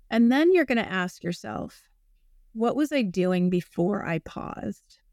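calm grounding exercise. Shown as a demonstration. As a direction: talk them through it calmly. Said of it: "it goes like this".

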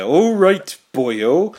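high, loud Welsh cop voice; a cheery Welsh "boyo" greeting; Welsh accent. Retold or imitated. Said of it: "might have well have been called, like, Taff".

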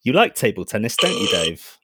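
calm computer voice; robot voice. Acted. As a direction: speak like a ship AI. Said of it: "My robot voice?".

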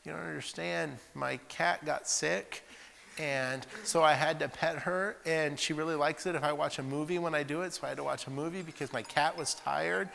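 milk a silly excuse; whiny excuse. Retold or imitated. Student explaining missed homework to Brother Daniels, whining.

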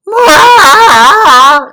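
loud high bleating goat. Retold or imitated. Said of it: "My goat impression".

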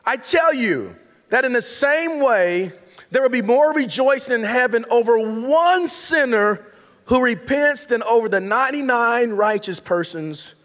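slow, measured Bible reading; scripture reading. Acted. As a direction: read the verses out slowly and solemnly. Reads scripture aloud.

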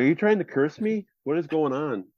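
high-pitched mock alarm; retold incredulity. Partner questioning the bedside crystal, mock incredulity. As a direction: play up baffled suspicion, voice jumping up.

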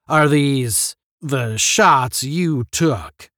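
stern general. A narrator's reading. General questions over photographs.

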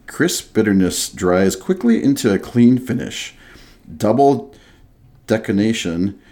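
grand, slightly hammed-up product blurb; beer label read aloud. Host reads the craft beer label aloud to his cohost, mock-grand ad read. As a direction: read the label like a proud ad, savoring each phrase. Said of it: "Where were these guys on career day?".

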